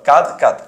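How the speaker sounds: "কাদ কাদ", the syllable said twice over; doubled pronunciation. Shown as a demonstration. Teacher showing students the double sound, doubled pronunciation. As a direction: say "কাদ" two times as one doubled word. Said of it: "double উচ্চারণ".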